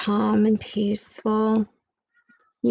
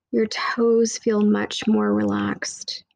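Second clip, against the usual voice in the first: whisper; slower than usual. Acted. Whispered meditation line.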